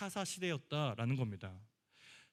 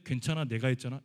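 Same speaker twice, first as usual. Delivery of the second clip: clueless comfort; 7 dB louder than usual. Retold or imitated. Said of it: "이러면은".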